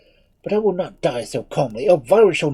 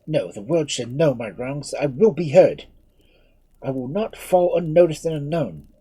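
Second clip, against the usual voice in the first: high, loud, raging defiance; a prisoner raving against his fate; maddened outburst; 8 semitones higher, 7 dB louder than usual. Acted. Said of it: "driven to madness by the thought".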